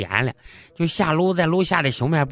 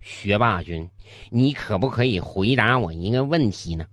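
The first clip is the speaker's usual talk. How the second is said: struggling student; 7 semitones lower than usual. Acted. Dunce humbly asks the top student.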